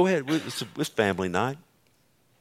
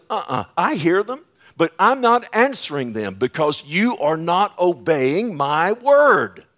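firm refusal; 4 semitones higher, 4 dB louder than usual. Retold or imitated. Voices God refusing prayers.

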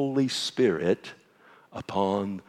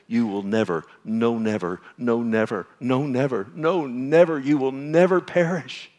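stack each no never a notch louder until it rings; building never; 2 semitones higher, 5 dB louder than usual. Acted. Preacher builds the promise to his congregation, swelling to a shout.

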